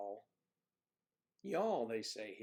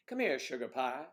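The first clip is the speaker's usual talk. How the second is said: pet name call; 2 semitones higher, 5 dB louder than usual. Shown as a demonstration. Trying out pet names.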